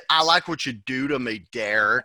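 lightly hammed-up girlfriend purring at him; imitating Kate. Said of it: "You sound like, uh, fucking Ruth from Ozark".

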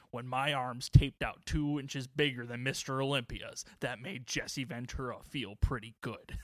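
lightly voiced wrestler's boast, slowed and proud; a hint of Jesse the Body bragging about his arms; mock-proud tough-guy voice, only lightly put on; Jesse Ventura voice. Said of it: "pretty spot on Jesse Ventura thing".

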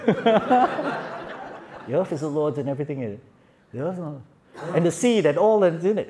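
reciting the verse through laughter; laughing while doing Jeff's recitation. Retold or imitated. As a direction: chuckle your way through the verse. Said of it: "you knew it was Jeff".

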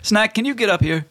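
high, fussy genie voice. Acted. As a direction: whine it like a picky genie. Genie calls Snack.

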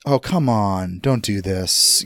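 slow, lightly voiced disappointed parent; disappointed father imitation. To the hosts, lightly imitating Jones's loaded disappointment. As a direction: sigh it like a let-down patriarch. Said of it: "that kinda loaded".

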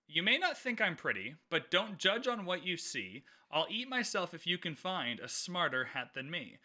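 reading the Sorting Hat's poem aloud with light rhythm; poem recitation. Acted. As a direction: recite it like a playful rhyme, barely performed. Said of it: "It's a pretty good rendition".

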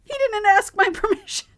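hammed-up protective mother; mock indignant mom. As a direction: snap back, affronted. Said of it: "I'm like".

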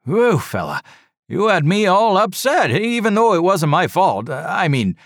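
high, loud, gushing relief; rush of words. A narrator's reading. Red-faced driver to the survivor, loud gushing rush. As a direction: babble it out in one rush. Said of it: "in a rush of words".

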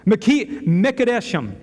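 false start on "Meki-", then "Mekadeshim"; stuttering over a word. Real, not acted. Preacher trying a Hebrew name of God, stuttering on "Mekadeshim". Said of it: "Now I'm stuttering over it".

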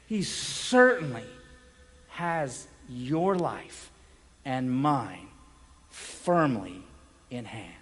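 calm pulpit reassurance fading to near silence; slow, falling reassurance. Acted. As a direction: settle the point gently and slowly. Preacher slows to soft close.

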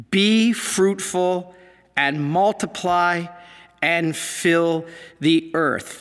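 "Be fruitful and multiply" read slowly and solemnly, each word drawn out; slow scripture reading. Acted. Reads scripture off slide.

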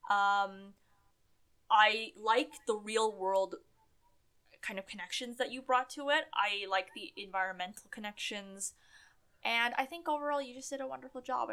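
tipsy, slightly slurred speech. Real, not acted. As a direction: talk like you've had a few drinks. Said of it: "I'm so drunk right now".

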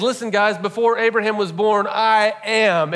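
forceful preacher's claim; bold declaration. Acted. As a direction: announce it to the crowd. Retelling Jesus's claim with force.

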